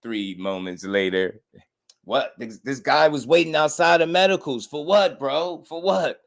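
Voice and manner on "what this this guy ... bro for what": much higher, mock baffled whine; imitating puzzled father. Retelling the father's complaint about the medicals. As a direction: play it confused and indignant. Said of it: "the little SpongeBob clip".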